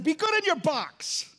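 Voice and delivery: preacher lets God speak firmly, slowly and loudly; voicing God. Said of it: "God said".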